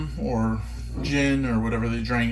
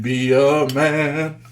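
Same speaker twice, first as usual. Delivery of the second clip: Mulan song line; 3 dB louder, much slower than usual. Pretend. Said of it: "Who's watching Mulan".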